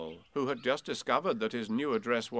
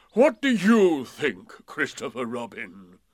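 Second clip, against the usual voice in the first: anxious; 12 dB louder, slower than usual. Acted. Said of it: "asked Eeyore a little anxiously".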